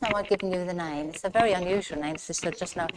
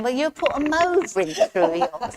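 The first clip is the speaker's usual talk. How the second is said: higher, louder, drawn-out retort; mock-cheeky comeback, pitched up and stretched; teasing, amused quote; 8 semitones higher, 5 dB louder than usual. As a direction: tease back as an amused mum, slowly rising in pitch. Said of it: "and she's laughing".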